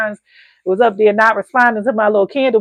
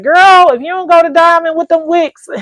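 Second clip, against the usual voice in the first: mock friend's scolding; 8 semitones higher, 6 dB louder than usual. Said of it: "she was like".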